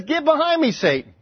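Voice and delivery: pointed, high-pitched rebuke dropping on the last word; a mock stage whisper, voiced for everyone to hear. Jesus rebuking Peter for all disciples to hear, stage whisper. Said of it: "kind of a stage whisper".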